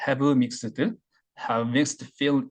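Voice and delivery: "Have" down, "mixed" up; down-up tune demo. Shown as a demonstration. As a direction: dip on "Have", then lift "mixed". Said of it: "Have down up이 되는 거죠". ("Have"는 내리고 "mixed"는 올리는 억양)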